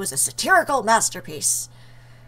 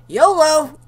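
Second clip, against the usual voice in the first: loud, raised shout; leaping battle cry; 5 semitones higher, 8 dB louder than usual. Acted. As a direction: yell it before a reckless jump.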